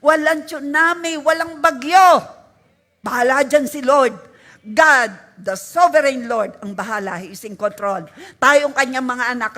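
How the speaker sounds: loud, fervent prayer of faith; declared prayer. Shown as a demonstration. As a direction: proclaim it boldly to God. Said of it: "Sabihin natin". (malakas at matapang na pagpapahayag ng panalangin)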